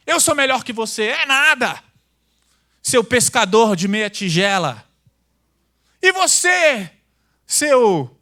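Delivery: loud, slow squabbling insults; hammed-up disciples bickering; playful mock shouting; mock quarrel.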